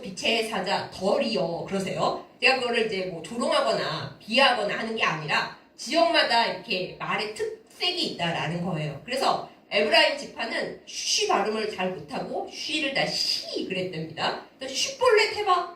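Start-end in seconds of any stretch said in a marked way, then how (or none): 0.0-1.6 "덜이여" said slowly for 드리어, as in the dialect; Gyeongsang pronunciation. Shown as a demonstration. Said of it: "잘 못하시고". 14.7-15.8 much higher and louder, barking the order; guard at the Jordan ford testing a fugitive, high loud challenge; high, loud demand. Retold or imitated. Guard demands the test word.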